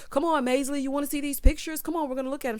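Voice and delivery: mimicked excitement. Retelling his wish to show pictures, mildly excited. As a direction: lightly act out his excited urging. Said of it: "he's all excited".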